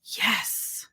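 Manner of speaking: slow pleading encouragement; pleading cheer. Retold or imitated. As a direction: urge them on, slowly and warmly. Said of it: "I smiled because I was like".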